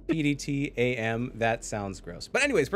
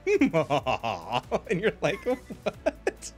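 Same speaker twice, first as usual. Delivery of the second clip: goofy laugh imitation; 2 semitones higher, much slower than usual. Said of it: "his voice line is just like".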